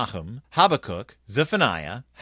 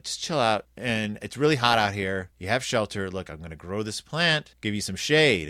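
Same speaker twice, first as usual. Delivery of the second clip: calm God; 5 semitones lower than usual. Retold or imitated. God calmly soothes the angry Jonah. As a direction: settle him down gently. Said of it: "And God's like".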